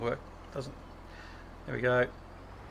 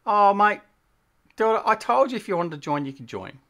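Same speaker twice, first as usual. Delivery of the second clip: raised, exasperated reproach; louder, higher, mildly put-out telling-off; exasperated chiding; 6 semitones higher, 5 dB louder than usual. Real, not acted. Streamer chiding viewer Delta over joining, exasperated.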